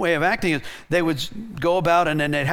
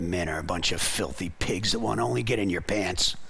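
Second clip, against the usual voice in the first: very low, dropped-down, hushed put-on voice; 11 semitones lower, 7 dB quieter than usual. Retelling what a woman said when asked what she believes about men, really deep voice. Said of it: "she gets in a really deep voice".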